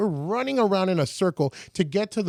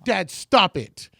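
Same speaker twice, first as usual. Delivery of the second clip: slow, louder rebuke; mad at dad; 3 semitones higher, 5 dB louder, much slower than usual. Retold or imitated. Selena scolds her father again, slow and louder. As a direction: drag out a firm stop. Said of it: "She got mad at Abraham".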